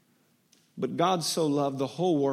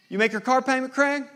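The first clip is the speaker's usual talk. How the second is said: put-on higher, probing older-brother voice; brother John checking up; 9 semitones higher, 5 dB louder than usual. Brother phones his sibling about the bill, probing. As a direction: needle him about the missed payment.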